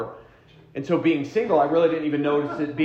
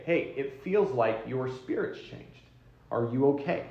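softer, caring question; gentle check-in; 4 dB quieter than usual. Shown as a demonstration. Spouse checking on a partner whose mood changed, softly caring. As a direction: ask it gently, from a standpoint of help. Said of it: "not to accuse your spouse".

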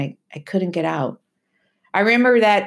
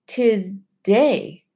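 Timothy's voice; 4 semitones higher than usual. Acted. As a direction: warn the boy like an old island sailor. Timothy's voice in the story.

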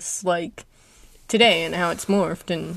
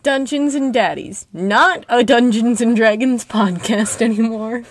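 mock whiny fan; 4 semitones higher, 7 dB louder than usual. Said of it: "they were like".

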